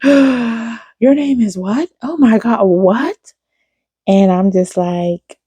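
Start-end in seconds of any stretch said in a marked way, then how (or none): 0.0-3.3 high, slow, gasping disbelief; imitating an astonished old lady. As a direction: gasp then stretch out the amazed question. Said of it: "they would be like".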